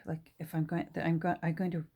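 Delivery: tripping over the words; stammering. Real, not acted. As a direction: stumble and restart the phrase. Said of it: "I'm stammering today".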